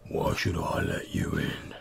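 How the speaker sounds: low, menacing troll growl; deep troll voice. Acted. Ten-foot troll glowers down.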